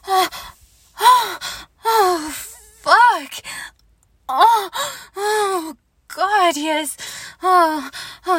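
high, loud drawn-out moans; passionate moaning. Acted. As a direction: cry out, overwhelmed with pleasure. Intimate scene between adult partners.

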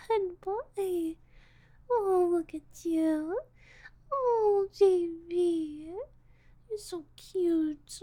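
put-on loud delighted baby talk to a cute boy; gushing coo. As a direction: coo over him as if he's adorable. Gushing over the boy's cuteness.

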